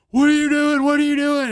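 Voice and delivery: high, loud mock panic; imitating gas attendant. Attendant confronting him at pump.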